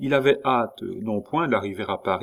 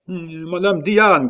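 high, drawn-out shout for someone missing; loud cry; 8 semitones higher, 7 dB louder, slower than usual. A narrator's reading. A husband calling for his lost wife in the night, loud cry. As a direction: call out at full voice. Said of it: "criait cette voix".

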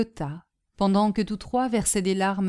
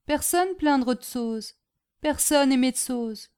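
sad; 7 semitones higher, 6 dB louder than usual. A narrator's reading. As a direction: lament being alone, drawing out the phrases. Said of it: "dit Tsoz avec tristesse".

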